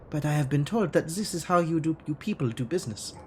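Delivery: lightly put-on German accent for Frau Mueller; a hint of a stiff German accent, formal and guarded; faux German accent. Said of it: "this awful faux German".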